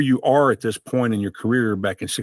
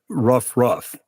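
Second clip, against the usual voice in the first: dog barking. Retold or imitated. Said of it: "the dog looks at the duck and says".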